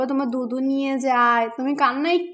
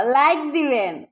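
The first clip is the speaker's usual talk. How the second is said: slow prompting; 2 semitones lower, slower than usual. Shown as a demonstration. Parent prompts toddler to repeat.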